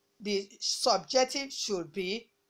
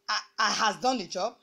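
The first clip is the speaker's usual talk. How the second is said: wrong example. Shown as a demonstration. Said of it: "That would be incorrect".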